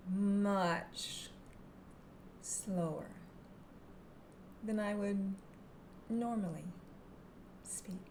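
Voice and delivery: slowed right down with long gaps; slow with pauses. Shown as a demonstration. Hypnotherapist showing her slow voice to students. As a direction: draw each word out slowly. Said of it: "I'm actually going to slow my voice down".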